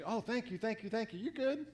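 high, gushing thank yous; effusive thanks. Retold or imitated. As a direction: gush over a favor. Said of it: "can mean a lot of different things".

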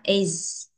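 "Is" ending in a clear z; sounded final Z. Shown as a demonstration. Teacher reminds children, "Is" with its z ending. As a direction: hold the z at the end of "Is". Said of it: "các con hay quên âm Z lắm".

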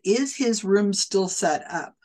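slow, rising questioning tune; asked as a question. Retold or imitated. Quoting the psychic's doubtful question to the mother. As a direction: let it sound unsure, like a guess. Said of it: "He said it as a question".

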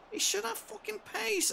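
high, loud exasperated yell; frustrated shout. Real, not acted. Frustrated at slow player.

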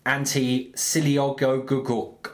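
slow, laboured sounding-out; halting read-aloud. Shown as a demonstration. Friend struggling through a long Welsh town name, halting read-aloud. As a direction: pick through a tongue-twisting Welsh name syllable by syllable. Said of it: "have a go at reading this".

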